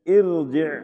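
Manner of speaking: ارجع recited loud, r held full; heavy r. Shown as a demonstration. Teacher repeats example for students, loud heavy r. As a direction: say ارجع as "irji'" with thick r. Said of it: "موٹا پڑھتے ہیں".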